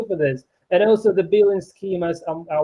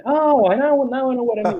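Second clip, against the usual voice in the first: raised-pitch burst of getting it; sudden realisation; 7 semitones higher, 3 dB louder than usual. Retold or imitated. Recalling looking up a new word, sudden realisation. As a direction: act out the penny dropping, higher. Acts out his moment of understanding.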